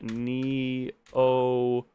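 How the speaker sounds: Neocortical said slow, syllable by syllable; slow sounding out. Shown as a demonstration. Streamer testing the strange word Neocortical slowly. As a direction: spell out Neocortical carefully in sound. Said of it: "is that a real word?".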